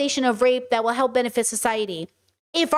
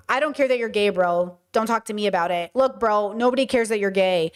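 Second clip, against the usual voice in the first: dismissive bro; 4 semitones lower than usual. Retold or imitated. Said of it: "Same words, different attitude".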